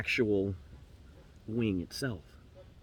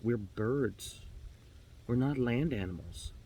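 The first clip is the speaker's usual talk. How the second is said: soft, slow, earnest persuasion; hushed, measured appeal from the raven; leaning in close; 3 semitones lower, 6 dB quieter, slower than usual. Acted. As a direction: lean in and press it gently, quietly. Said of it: "the raven leans closer".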